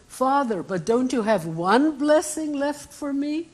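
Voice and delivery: high, rising mock-tearful plea; weeping plea. Esau begging his blind father for a blessing, tearful. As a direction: beg your father through tears, lightly acted. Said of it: "and he's weeping".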